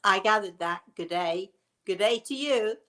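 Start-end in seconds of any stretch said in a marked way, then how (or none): 1.8-2.8 put-on light playful Australian accent; mock Australian accent. Greeting an Australian viewer back in a light mock Australian accent. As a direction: echo the Aussie greeting back with a grin. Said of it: "I love that accent".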